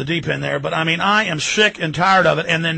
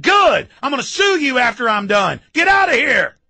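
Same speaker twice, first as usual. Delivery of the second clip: retold angry retort; 5 semitones higher than usual. Retold confrontation with census taker.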